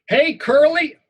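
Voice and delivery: high, gravelly call across the schoolyard; Benny's raspy call. Acted. School bully calls to the boy across the yard, raspy. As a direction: rasp it out like a chain-smoking bully. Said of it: "all gravelly and raspy".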